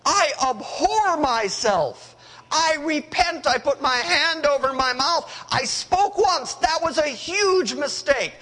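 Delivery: a cornered man meekly giving in; sheepish Job. Retold or imitated. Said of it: "And Job goes".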